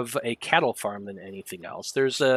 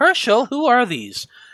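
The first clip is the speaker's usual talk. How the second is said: calling out loudly, pitched very high; 11 semitones higher, 6 dB louder than usual. Narrator voicing a woman calling out to Herschel as visitors approach, calling out. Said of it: "hear the human woman call out".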